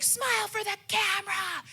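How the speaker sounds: high, loud shout; family shouting. Retold or imitated. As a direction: call out over the party noise. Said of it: "they're like".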